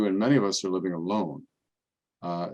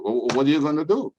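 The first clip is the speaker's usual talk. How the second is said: higher, louder resigned shrug; Italian parishioner; 7 semitones higher, 7 dB louder than usual. Retold or imitated. Pasquale answering the priest in the hospital, loud resigned shrug.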